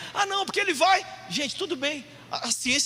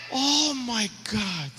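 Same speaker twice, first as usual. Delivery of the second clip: slow, drawn-out English wonder; acted overwhelmed awe; awestruck exclamation; much slower than usual. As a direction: stretch it out in amazement. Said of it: "nós vamos falar o quê?".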